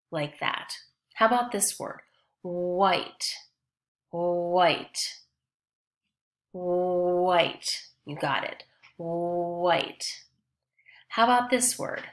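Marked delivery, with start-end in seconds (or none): 2.4-7.6 "white" with a long, level oo glide at the start; stretched wh sound. Shown as a demonstration. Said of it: "If you hear the W H sound". 9.0-10.0 "white" with a long, level oo glide at the start; stretched wh sound. Shown as a demonstration. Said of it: "If you hear the W H sound".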